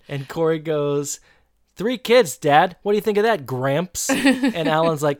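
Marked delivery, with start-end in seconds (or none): 1.7-4.1 high, loud jab at dad; mock outburst. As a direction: throw it at him, loud and high-pitched. Retold teasing outburst at dad.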